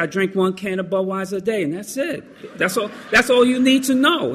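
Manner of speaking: high, defensive insistence; insistent. Retold or imitated. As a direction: protest a bit too much. Lying to the doctor, retold.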